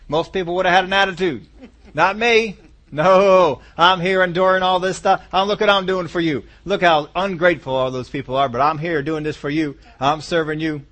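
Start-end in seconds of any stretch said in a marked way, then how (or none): 1.9-10.8 louder, preening martyr telling God how good he is; self-righteous boast. Acted. Believer boasting to God of his endurance, louder and smug. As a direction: puff yourself up as the long-suffering hero. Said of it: "And that attitude can get in".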